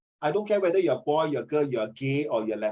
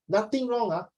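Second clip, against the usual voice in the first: high sing-song insistence; 5 semitones higher than usual. Shown as a demonstration. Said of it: "The tonality".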